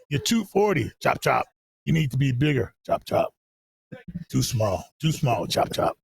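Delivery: lightly rasped imitation of a coach; a hint of raspy coach, tossing in "chop, chop"; raspy coach impression. Coach telling a player he's too small, lightly imitated raspy voice. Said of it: "real raspy voice".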